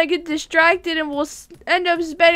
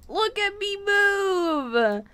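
showing off; 5 semitones higher, much slower than usual. Pretend. Showing off movement in game.

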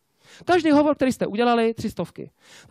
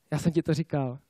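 low, subdued told-you-so; understated reproach, dropped lower and softer; 5 semitones lower, 4 dB quieter than usual. Retold or imitated. People around you telling a failed beginner, smug reproach.

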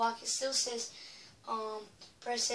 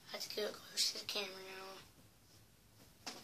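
leaning in to whisper; 3 semitones lower, 7 dB quieter than usual. Real, not acted. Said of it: "now I have to whisper".

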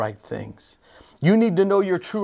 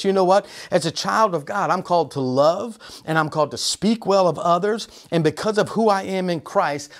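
confident declaration. Shown as a demonstration. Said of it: "what if you said this".

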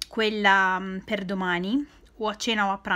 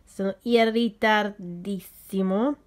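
slow, just-woken sleepy voice; groggy morning voice; slower than usual. Real, not acted. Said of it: "ho ancora la voce da sonno".

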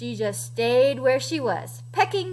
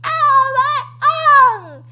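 loud, high pained howl; garbled, hammed-up dinosaur yelp; Tyrannosaurus with tongue held; 11 semitones higher, 8 dB louder, slower than usual. A narrator's reading. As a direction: wail as if your tongue is held fast. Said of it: "roared a new roar, and he said".

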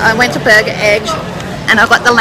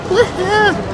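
excited cheer; 9 semitones higher than usual. Real, not acted. Cheering about shopping.

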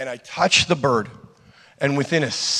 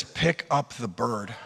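the Lord's voice; 4 semitones lower, 7 dB quieter, slower than usual. Retold or imitated. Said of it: "And the Lord says".

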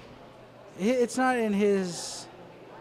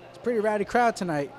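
quick, dry sarcastic remark; deadpan irony, saying the opposite; 3 semitones higher, faster than usual. Shown as a demonstration. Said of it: "that's sarcasm".

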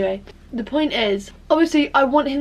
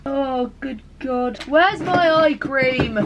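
starting to cry; 5 semitones higher, much slower than usual. Real, not acted. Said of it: "I'm gonna start crying".

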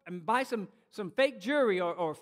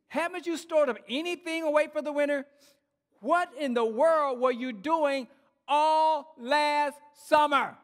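scolding ants; 3 semitones higher, 3 dB louder than usual. Acted.

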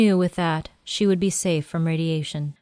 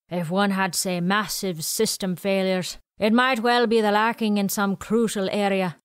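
put-on quirky old man; 3 semitones higher than usual. Willie speaking.

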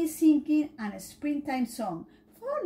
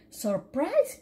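cried out; 3 semitones higher than usual. Acted. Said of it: "cried Dylan".

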